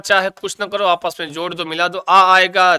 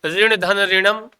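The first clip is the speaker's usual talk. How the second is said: slow dictation; 2 semitones higher, slower than usual. Shown as a demonstration. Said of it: "जरूरी हो सकता है".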